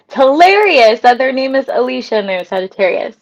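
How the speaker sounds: real laughter running through the words; laughing hard. Real, not acted. Streamer amused by a follower's matching name, laughing. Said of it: "That's why I'm laughing so hard".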